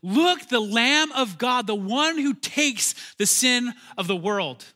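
loud, slow, high proclamation; slow ringing cry of recognition; proclaiming. Acted. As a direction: announce him like a herald to the crowd. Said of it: "John says these very words".

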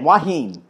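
"Hua Hin" as "wa-heen", falling at the end; "Hua Hin" run into "wa-heen"; foreigners' pronunciation. Shown as a demonstration. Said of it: "That's how the foreigners say it".

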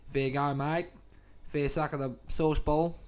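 put-on Aussie accent; casual Australian accent for show. Shown as a demonstration. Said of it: "they love my Aussie".

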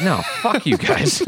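high, put-on whiny refusal; imitating Yellow Guy. Yellow Guy tells the smart puppets off, in a squeaky put-on voice. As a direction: brush them off in a squeaky voice. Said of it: "And he's just like".

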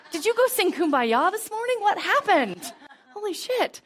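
high, laughing mock shock; laughing disbelief. Employee laughing in disbelief at the loving boss.

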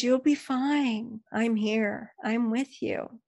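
put-on calm a scared child gently; soothing mother voice. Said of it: "She said".

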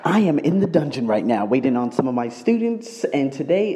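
echoey room sound; hallway echo. Real, not acted. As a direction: speak in an echoing basement. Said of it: "As you can hear, I'm a little echoey".

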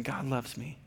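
put-on echoing child. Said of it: "she'll say".

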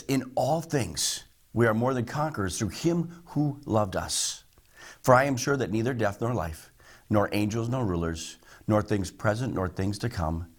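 solemn Bible reading; scripture reading. Acted. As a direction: read the verse with weight. Reads scripture aloud.

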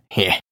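short, knowing "heh"; brief captain's chuckle under the breath; small dry laugh; low chuckle. A narrator's reading. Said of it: "chuckles the captain".

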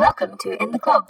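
very high robotic voice. Shown as a demonstration. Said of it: "in a robotic voice".

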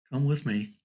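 a calm, steady father telling them to follow. Retold or imitated. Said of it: "he calmly said".

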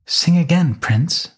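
airy, careless princess voice; nonchalant. Acted. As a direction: toss it off lightly, uncaring. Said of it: "with an air of nonchalance".

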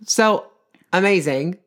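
slow, high mock-serious; deadpan joke; mock solemn. Joking after exercise.

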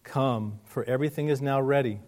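measured, solemn reading of a parable; scripture reading. Acted. Pastor reading scripture aloud, measured and solemn. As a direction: read the passage steadily to the congregation.

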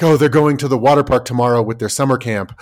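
stressed worrier. Retold or imitated. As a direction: fret like an overanxious parent, lightly put on. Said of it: "being all stressed out about something".

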